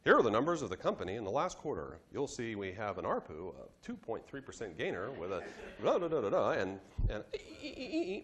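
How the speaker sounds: rattling off numbers, then dissolving into laughing stammers; mock rambling idiot. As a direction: play a clueless presenter tripping over his own jargon. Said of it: "to sound like an idiot".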